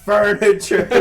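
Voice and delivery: loud mock-triumphant furniture; shouted exclamation. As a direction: bellow furniture, loud and high.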